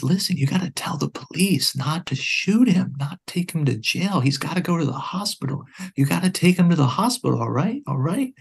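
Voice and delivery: retold urgent call to the 911 operator; urgent plea. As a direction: urge her to stop the police shooting him.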